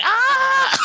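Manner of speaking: high shouted scream of victory; excited scream. Retold or imitated. Player screaming as he lands the last strike, high yell. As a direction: let out a wild high yell. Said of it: "And I was like".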